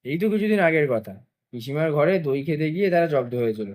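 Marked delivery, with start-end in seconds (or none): none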